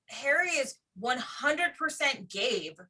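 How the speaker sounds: ordinary delivery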